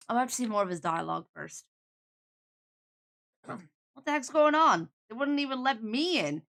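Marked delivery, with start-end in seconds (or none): 3.9-6.4 put-on New York accent. Man shut out of the theater, indignant New York accent. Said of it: "I'm getting a New York vibe".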